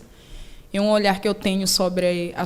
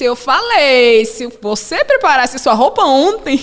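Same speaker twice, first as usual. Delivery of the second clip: firm scolding; 5 semitones higher, 8 dB louder than usual. Retold or imitated. Mother scolds slowly.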